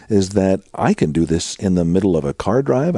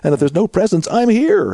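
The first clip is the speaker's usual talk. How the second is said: a lightly voiced, higher, louder God insisting; God gently pleading with his child, pitched up; voicing God; 11 semitones higher, 4 dB louder than usual. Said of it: "God's saying".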